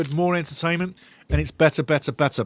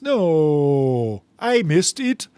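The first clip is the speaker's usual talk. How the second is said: put-on Danish accent; much slower than usual. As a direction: read the viewer's line in a put-on Danish accent. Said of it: "In a Denmark accent".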